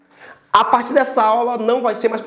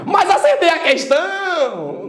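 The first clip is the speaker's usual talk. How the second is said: protesting student; 3 semitones higher than usual. Acted. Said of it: "Aí você diz assim".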